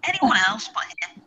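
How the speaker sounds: hollow, far-off tunnel sound; echoing tunnel. Real, not acted. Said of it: "You sound like you're in a tunnel".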